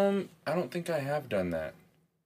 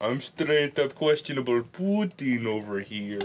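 mock Russian accent. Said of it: "speak with a Russian accent".

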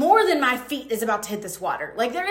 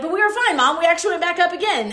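higher, quick bubbly insisting; eager reassurance; 5 semitones higher, 4 dB louder, faster than usual. Retold or imitated. Reassuring her shocked mom on the beach, eager higher insisting. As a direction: brightly brush off mom's fright. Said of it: "I'm like".

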